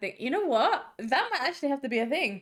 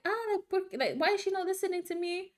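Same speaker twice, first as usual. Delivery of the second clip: higher imitated voice of a puzzled caller; Brazilian parents' friends; 8 semitones higher than usual. Parents' friends wondering why she ignores them, higher imitated voice. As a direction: mimic an ignored caller, pitched up. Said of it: "an accent 'cause they're Brazilian".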